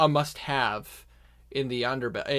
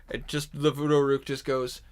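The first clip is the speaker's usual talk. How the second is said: ordinary talk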